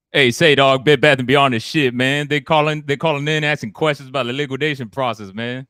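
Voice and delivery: high, loud street-talk ghost, hammed up. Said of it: "I'll do the voice just how the ghost said it".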